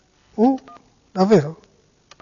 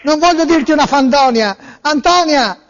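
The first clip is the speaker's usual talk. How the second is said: theatrical swelling poetry reading; 3 semitones lower than usual. Pretend. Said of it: "il poeta pazzo della poesia folle".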